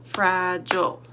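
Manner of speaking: Fragile said slowly, beat by beat as Fra-gile; syllable by syllable. Shown as a demonstration. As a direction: clap out Fragile in two beats. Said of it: "let's count the syllables".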